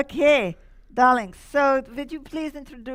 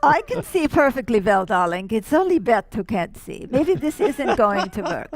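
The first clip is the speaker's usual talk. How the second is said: campy drag queen; 4 dB louder than usual. Acted. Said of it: "Madame Mazurka, are you there?".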